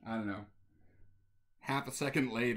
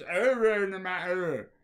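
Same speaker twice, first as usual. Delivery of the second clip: put-on dazed kid; 4 semitones higher, 4 dB louder than usual. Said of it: "And he says".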